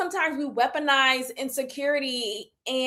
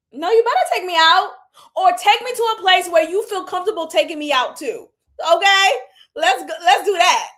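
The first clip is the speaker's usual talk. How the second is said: louder, emphatic, insisting; punchy demand that he show her off; firm demand; 4 semitones higher, 5 dB louder than usual. Real, not acted. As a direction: lay down the law, half laughing. Insisting to the woman's date.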